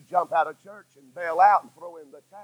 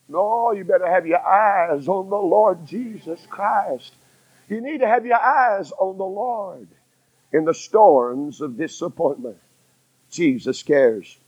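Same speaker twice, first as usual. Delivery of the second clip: slow solemn appeal. Acted. Preacher slows to solemn appeal.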